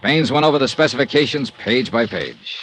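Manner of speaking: first-person detective narration over music; story narration. A narrator's reading. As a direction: narrate like a radio private eye.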